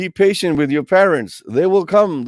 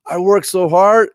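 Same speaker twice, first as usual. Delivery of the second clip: proud; 6 semitones higher, 7 dB louder than usual. Pretend. Proud gardener after the bloom.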